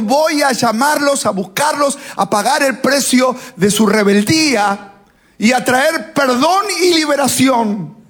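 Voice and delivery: high-pitched, rising preacher's proclamation; proclaiming. Acted. Jesus entering Jerusalem to bring forgiveness, proclaiming. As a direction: declare the mission as a ringing announcement.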